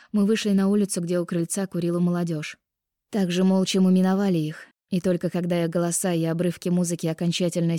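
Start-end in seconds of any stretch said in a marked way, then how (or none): none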